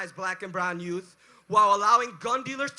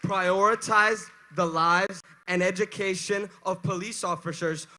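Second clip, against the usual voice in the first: roaring rallying speech; 4 dB louder than usual. Real, not acted. Rally speaker shouting to crowd.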